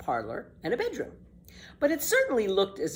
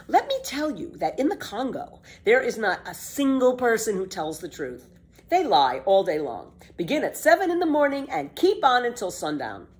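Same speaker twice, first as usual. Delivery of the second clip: put-on bold, bright-eyed girl, a bit louder; lively girl Pippi; 6 semitones higher, 4 dB louder than usual. Pippi defends walking backward to Tommy, cheeky girl voice.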